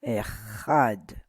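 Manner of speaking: "Echad" with the weight on "chad"; stressed syllable. Shown as a demonstration. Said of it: "emphasis on ch".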